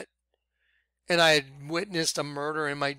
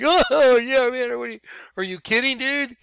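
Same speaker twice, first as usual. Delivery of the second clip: high, fast, eager; bursting to tell the ghost story; excited bartender; 8 semitones higher, 5 dB louder than usual. Retold or imitated. Bartender answering the haunted question, high and fast.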